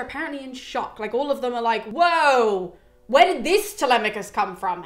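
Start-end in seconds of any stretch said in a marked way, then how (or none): 1.9-4.8 shocked suitors. Retold or imitated.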